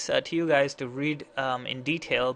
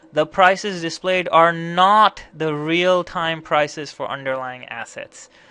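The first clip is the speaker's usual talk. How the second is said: loud, heavily sarcastic voice; 3 semitones higher, 8 dB louder than usual. Giving a key takeaway in a walkthrough, in a loud, sarcastic voice. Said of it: "I'll say this in a very loud and sarcastic voice".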